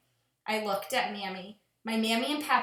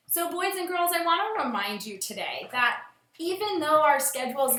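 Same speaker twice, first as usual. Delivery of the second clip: put-on a gentle address to the children; teacher reminding students to enjoy the days at home; teacher talking to class. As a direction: speak kindly to your pupils. Teacher addresses class after story.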